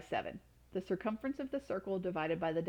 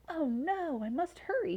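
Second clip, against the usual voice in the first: higher, urgent oh no; startled awake and rushing; alarmed hurry; 8 semitones higher, 3 dB louder than usual. Acted. Boy wakes late, alarmed.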